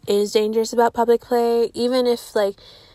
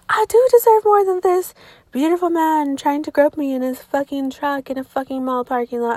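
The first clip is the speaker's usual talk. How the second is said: higher, louder dramatic realization; mock epiphany; 4 semitones higher, 4 dB louder than usual. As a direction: act out a mock revelation.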